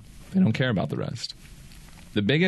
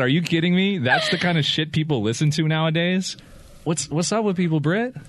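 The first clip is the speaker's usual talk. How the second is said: Pee Wee Herman; 5 semitones higher than usual. Retold or imitated. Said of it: "I asked Pee Wee Herman".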